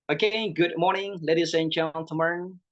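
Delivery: demonstrated speech opening with flair; stylish presenter greeting. Shown as a demonstration. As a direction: greet the audience like a showy presenter. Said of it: "kayak gini".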